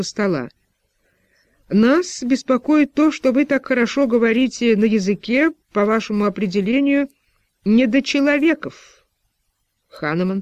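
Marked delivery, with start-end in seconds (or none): 1.7-9.1 a lightly voiced official, raised and pointed; slightly higher official's voice, suspicious; official's probing voice. A narrator's reading. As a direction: press him with a slightly higher, insistent question. Official accuses Hanemann.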